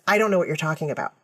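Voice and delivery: quick, offhand retold denial; lightly imitated nonchalance; casual denial. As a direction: brush it off without concern. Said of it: "she's very casual through this".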